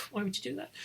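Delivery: high, puzzled little-girl question, lightly voiced; little girl asking. Retelling the girl questioning the hero's sacrifice, lightly childlike and high. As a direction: ask it with a child's disbelief. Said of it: "she's like".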